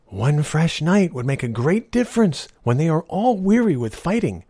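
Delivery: put-on a sly old woman, sweetly persuasive; old beggar woman. Old woman tempts knight.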